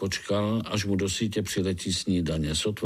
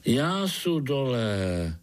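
voice from underground; 3 semitones higher, much slower than usual. Acted. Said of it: "ozval se hlas z podzemí".

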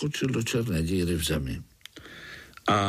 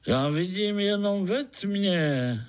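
high, slow, kindly mole voice in Moravian dialect; higher, slow, good-natured dialect voice; 9 semitones higher than usual. A narrator's reading. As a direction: ask kindly, like a half-blind old mole. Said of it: "volalo to dobrácky".

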